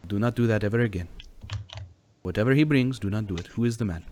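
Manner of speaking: put-on stern, formal accented protector; Giuseppe. Giuseppe scolding Chirpy about bringing men, stern accented voice. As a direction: lay down orders firmly, no contractions. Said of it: "Giuseppe says".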